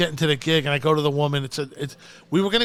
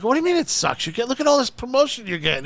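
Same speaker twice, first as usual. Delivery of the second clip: incredulous pushback; 7 semitones higher, faster than usual. Retold or imitated. Comic argues back at Chips, high and incredulous. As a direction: push back at the old-timer in disbelief.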